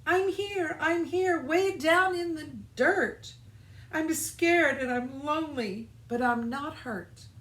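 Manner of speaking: high, little voice calling up from below; lightly voiced small seed, a bit scared. Little Seed answering Fox from the dirt, lightly voiced.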